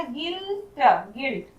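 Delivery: soft "गिल्ट" with no u sound; silent u. Shown as a demonstration. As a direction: say "गिल्ट" softly, g straight into short i. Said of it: "यू का sound नहीं हो रहा". ("गिल्ट" धीमे स्वर में, यू मौन)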